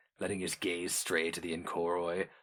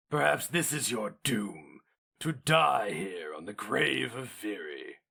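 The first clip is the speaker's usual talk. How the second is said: hero mage voice; 2 semitones higher than usual. A narrator's reading. Taturga threatens the Inkoroi.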